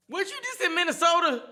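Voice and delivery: loud mocking question. Real, not acted. Teasing his friend.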